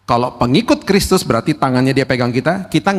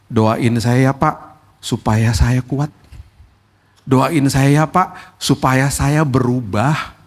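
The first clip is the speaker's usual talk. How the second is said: humble, sincere request; 2 semitones higher than usual. Retold or imitated. Humble believer asking the pastor, slow and sincere. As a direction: ask earnestly to be changed. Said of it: "hanya sepuluh persen yang ngomong gini".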